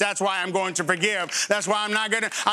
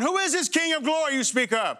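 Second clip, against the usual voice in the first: raised, scornful questioning voice; mocking skeptic; 5 semitones higher than usual. Preacher mimics the skeptical world, mock scornful question. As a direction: mimic the doubting world, pitched up. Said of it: "The world's going".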